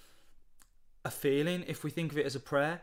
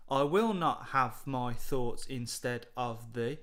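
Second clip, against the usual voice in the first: poem line read out; slower than usual. Shown as a demonstration. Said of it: "we've got".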